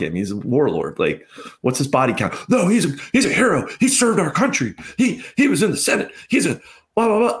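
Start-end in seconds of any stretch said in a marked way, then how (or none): 2.5-7.4 higher, sing-song mocking of their praise; mock normie. Mocking the normies at brunch in a higher sing-song voice. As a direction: parrot them like a cartoon patriot.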